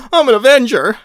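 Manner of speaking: high, loud indignant cry; high shouted protest. Acted. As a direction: protest at the top of the voice. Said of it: "he cried".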